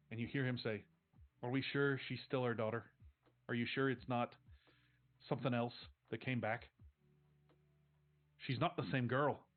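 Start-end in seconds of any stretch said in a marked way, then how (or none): 1.4-9.5 put-on Irish accent. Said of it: "your Irish Catholic father, and my pathetic Irish accent".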